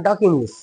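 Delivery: "talk" as tawk inside the sentence; silent L. Shown as a demonstration. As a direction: go straight from vowel to K in "talk". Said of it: "असं बोललं तर". ("talk", ल silent ठेवून)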